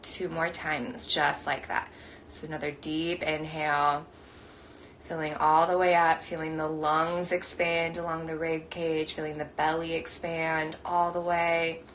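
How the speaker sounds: slow guiding voice with long pauses; guided meditation. Acted. Meditation teacher guiding the group's breathing, slow and measured. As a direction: lead them gently through each breath.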